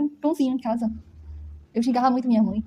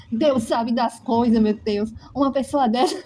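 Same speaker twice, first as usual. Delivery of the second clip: slow, louder imitation of her mother's scolding; imitating her mother; 4 dB louder, slower than usual. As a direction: mimic mother's dramatic lament, drawn out. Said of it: "Era rindo da maneira dela falar assim". (imitando a mãe, devagar e mais alto)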